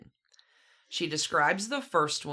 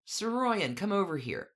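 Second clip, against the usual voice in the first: put-on upper-class English accent; 3 semitones higher than usual. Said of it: "yelled in an upper-class English accent".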